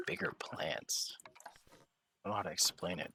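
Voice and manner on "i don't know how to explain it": whisper. Real, not acted. Whispering while building.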